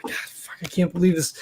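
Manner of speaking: very quiet whispered curse; muttering. Acted. Johnny looking down at the creature, muttering in disbelief. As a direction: curse softly under your breath. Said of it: "like, muttering and kinda".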